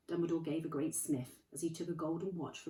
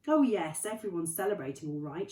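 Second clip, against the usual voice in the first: brisk, impatient and raised; 7 dB louder than usual. A narrator's reading. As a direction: snap it out, fed up. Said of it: "she said impatiently".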